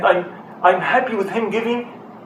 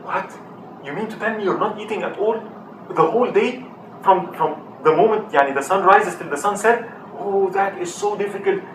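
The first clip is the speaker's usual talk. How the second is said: astonished worker; 3 semitones higher than usual. Retold or imitated. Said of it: "And the man was".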